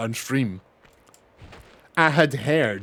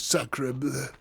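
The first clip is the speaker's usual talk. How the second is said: mock French exclamation; 8 dB quieter than usual. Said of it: "He goes".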